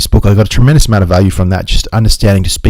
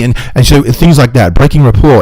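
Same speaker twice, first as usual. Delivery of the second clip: ordinary talk, nothing marked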